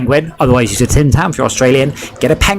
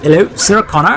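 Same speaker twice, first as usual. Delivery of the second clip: put-on higher-pitched Terminator line in West Country accent; broad Devonshire accent; 6 semitones higher than usual. Streamer showing what Germans would hear, broad West Country Devonshire accent. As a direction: play the Terminator as a Devonshire yokel. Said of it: "Devonshire accent like what I've got".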